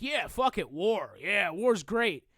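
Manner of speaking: lightly hammed-up blithe enthusiasm; mock gung-ho cheer. Imitating people who are all for war, mock gung-ho.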